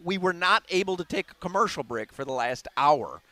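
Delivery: winded, breathing hard between words. Real, not acted. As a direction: talk while still catching your breath. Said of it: "and I'm winded".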